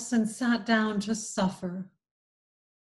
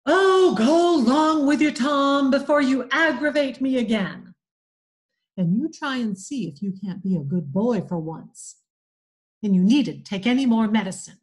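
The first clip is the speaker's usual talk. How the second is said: gruff bluster; 6 dB louder than usual. Acted. Aunt Polly shooing Tom off, loud mock-gruff bluster. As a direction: bluster to hide her tears.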